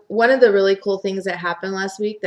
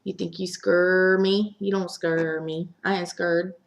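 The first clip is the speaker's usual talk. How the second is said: smirking scoff; slower than usual. Retold or imitated. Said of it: "does that little smirk like".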